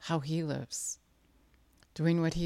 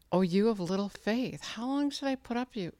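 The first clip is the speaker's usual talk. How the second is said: higher-pitched acted scolding; exasperated rebuke; 6 semitones higher than usual. Jesus chiding the frightened disciples, exasperated. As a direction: chide them in mild exasperation.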